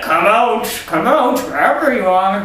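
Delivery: high, loud teasing come out come out; mock sing-song call. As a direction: call like a burglar luring the owner. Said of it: "and then be like".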